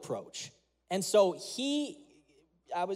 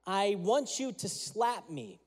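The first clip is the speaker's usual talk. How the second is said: calm dad; slower than usual. Retold or imitated.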